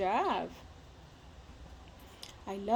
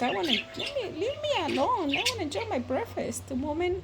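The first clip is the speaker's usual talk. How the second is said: higher, fast voicing of a grumpy bird; 5 semitones higher than usual. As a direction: speak for the bird, cranky and a bit fast. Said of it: "You're like".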